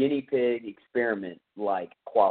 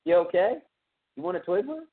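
imitated dad; 7 semitones higher than usual. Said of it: "He goes".

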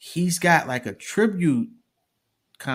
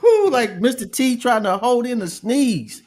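laughing; 12 semitones higher, 7 dB louder than usual. Real, not acted. Still laughing at the bar.

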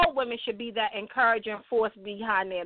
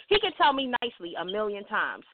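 normal talking voice

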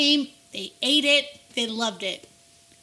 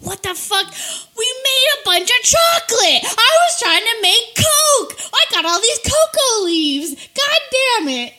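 mock frustration; 11 semitones higher, 6 dB louder than usual. Frustrated drug maker finding chocolate.

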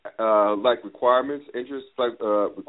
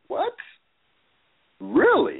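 high, loud, incredulous double take; retold disbelief; 3 dB louder, slower than usual. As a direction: replay your shock at the headline. Retelling his shock at the news.

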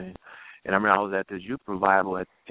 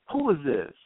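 protective mother; 7 semitones higher than usual. Retold or imitated. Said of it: "motherly defense mode".

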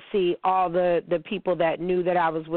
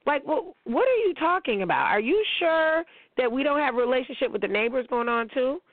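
incredulous; 5 semitones higher than usual. Real, not acted. Disbelief at the boyfriend's gift.

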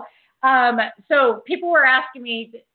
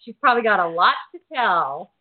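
excited thought; 4 semitones lower, 3 dB louder than usual. Retold or imitated. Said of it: "and I'm thinking".

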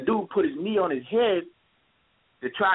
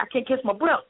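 higher strained plea, like someone losing air; imitating a breathless plea; 9 semitones higher than usual. Shot kid telling the officer he can't breathe, higher plea. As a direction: pitch it up and plead.

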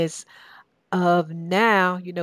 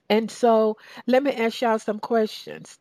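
a touch of Southern accent, pitched up; 4 semitones higher than usual. Shown as a demonstration. Preacher to the congregation, in a Southern accent. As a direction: slip into a homey Southern accent. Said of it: "That's my Southern accent".

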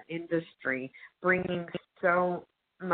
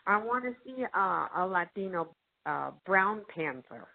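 mock demanding audience; 3 semitones higher than usual. Host imitating Latino audiences demanding representation, mock indignant. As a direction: voice the fed-up moviegoer making demands. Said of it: "you know, saying".

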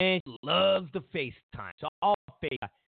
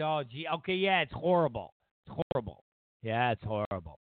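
mock agreement; 4 semitones lower than usual. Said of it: "I said".

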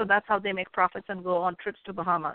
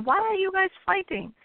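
higher, sly cat asking; a lightly voiced sly cat; hint of a cunning cat; 10 semitones higher than usual. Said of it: "So a cat comes and says".

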